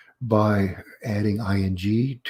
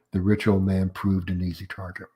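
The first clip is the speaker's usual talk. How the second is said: put-on "The rich old man proved an easy target" brought down to a close; finished sentence intonation. Shown as a demonstration. Lecturer completing the demonstrated sentence, falling to a finish on "target". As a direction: settle on TARGET, the thought is complete. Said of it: "it's unfinished. So it's rising intonation".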